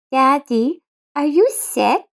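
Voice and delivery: put-on high child's voice, concerned; a daughter tugging at her dad's arm; worried little girl. Laura worried about her father.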